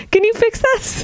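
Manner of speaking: high, strained toy voice; squeaky broken pull-string toy. Retold or imitated.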